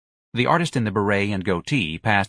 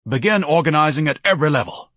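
high, loud rallying order; excited; 7 semitones higher, 5 dB louder than usual. Acted. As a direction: urge them on eagerly. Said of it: "Ignatius said excitedly".

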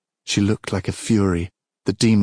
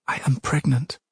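higher, hushed near-whisper; 6 semitones higher than usual. A narrator's reading. Princess reveals her pregnancy, lightly whispered. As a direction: confess it in a small, higher voice. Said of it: "the princess whispered".

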